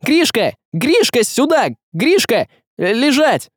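high, excited calling; urgent shouting. A narrator's reading. Василий calls Гришка over mid-fight, high urgent shouting. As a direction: shout commands to someone at a distance. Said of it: "закричал Василий".

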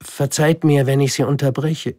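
high respectful address; polite little prince. Acted. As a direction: call the king politely. Prince apologises. (höflicher kleiner Prinz, hoch)

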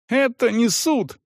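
high yell of protest; shrill-pitched outcry. A narrator's reading. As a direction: yell it, outraged. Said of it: "заорал Салон".

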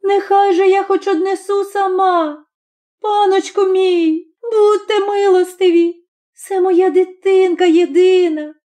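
high, sobbing entreaty; mother begging to carry her only child herself, crying; crying plea. A narrator's reading. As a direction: beg for mercy, voice breaking into tears. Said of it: "благає його Горпина плачуща".

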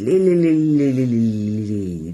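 loud trilling lililili cry; ululation. Acted. Woman ululates with her hand fluttering on her lips. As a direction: trill the tongue in a festive ululation. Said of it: "صدا مجفف و لرزان در هوا پیچید".

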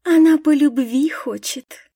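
mocking sing-song girl. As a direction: poke fun at her lightly. Кристаль дразнит Лидию. (насмешливо, с подколкой)

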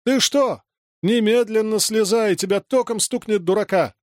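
high, panicked scolding; scared mother yelling him down; frantic shout. A narrator's reading. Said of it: "закричала Таня срывающимся голосом".

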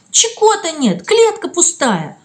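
high, upset and tearful. A narrator's reading. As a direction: blurt it out near tears. Girl crying over lost bird. (сквозь слёзы)

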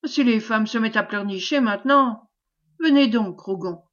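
mildly cross, pressing him to come; grumbling. Acted. Commander fed up with the pleading wife, grumbling impatiently. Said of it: "gronda-t-il".

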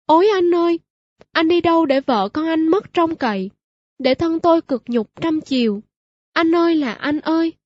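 wailing cry. Acted. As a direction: cry it out to the lost husband. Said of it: "Chị gào".

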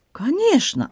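put-on high, slow French-accented broken Russian; excited Frenchman in broken Russian, high; Antoine voice. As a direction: play the flustered Frenchman, pitched high. Antoine speaks.

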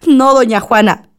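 breaking into a cry at the end; tearful refusal. Acted. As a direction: push it away as the tears come. Refusing to forgive the killers.

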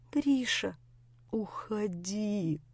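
very soft, slow, pitiful plea; quiet plea. A narrator's reading. Grisha softly begging Lera to leave, pitiful. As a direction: beg her quietly to go. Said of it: "но совсем тихо".

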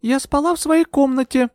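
high, cold retort; coldly. A narrator's reading. Euphemia coldly answers Bertram's insinuation. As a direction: freeze him out. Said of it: "холодно проговорила я".

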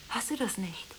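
breathless whispered question. Acted. Whispering an intimate question to Gigi on the phone. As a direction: ask it barely audibly, leaning close. Hushed question on night call.

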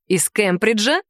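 a bored, offhand question; indifferent. Acted. Dragon asking the niece without interest, offhand. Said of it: "равнодушно спросил дракон".

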